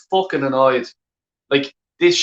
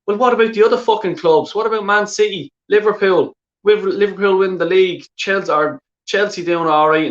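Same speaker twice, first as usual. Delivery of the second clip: outraged rant; 6 semitones higher than usual. Real, not acted. Arsenal fan raging at the owner over rival clubs, outraged. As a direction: fire the questions at him in real anger.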